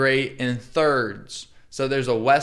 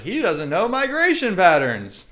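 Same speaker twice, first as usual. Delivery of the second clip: higher, worked-up inner rant; mock outraged rant; 3 semitones higher than usual. Retelling his own thoughts, he rants in mock outrage. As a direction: scoff at the host's bird ignorance. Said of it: "I was like".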